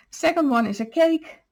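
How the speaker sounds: slightly breathless, catching breath. Real, not acted. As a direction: talk while short of breath. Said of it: "I'm out of breath".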